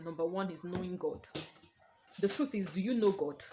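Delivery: talking while chewing gum; words around a wad of gum. Real, not acted. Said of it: "I'm sorry, I'm chewing gum".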